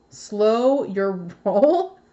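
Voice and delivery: Slow your roll drawn out slowly with a questioning rise; bemused, slow reading of the card; puzzled read. Real, not acted. Reading the card's phrase puzzled.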